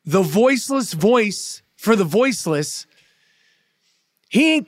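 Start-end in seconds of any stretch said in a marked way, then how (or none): 0.0-2.9 "the voiceless voice for the voiceless" slowly, chunk by chunk; broken-down phrase. Real, not acted. Repeating Kyrie's title for listeners, slow, deliberate "the voiceless voice for the voiceless". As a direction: break "voiceless voice" and "for the voiceless" into slow, separate pieces. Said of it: "I'll break it down again".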